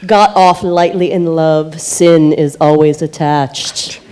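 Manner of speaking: loud, slowing theatrical reading; hammy stage actor. Pretend. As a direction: declaim it like a stage tragedian. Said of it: "read it in as theatrical a voice as I can".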